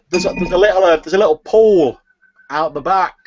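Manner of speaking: the seller shouting across the hall to the customer; loud seller voice. Acted. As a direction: blurt the secret out too loudly. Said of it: "she's literally shouting at you across the hall".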